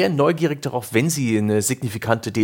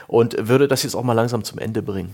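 talking with a dry mouth; parched, sticky-mouthed speech. Real, not acted. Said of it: "Gott, mein Mund ist ganz trocken".

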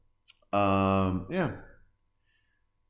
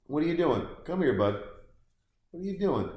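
higher, coaxing voice for the pet; talking to the dog; 5 semitones higher than usual. Real, not acted. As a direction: call the dog over, pitched up.

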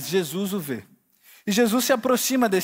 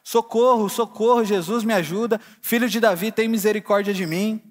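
desperate cry for help; 2 semitones higher, 4 dB louder than usual. Retold or imitated. Blind Bartimeu crying out to Jesus, a hammed-up desperate shout. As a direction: cry out to Jesus like a blind beggar, half-voiced. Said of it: "começa a gritar desesperado".

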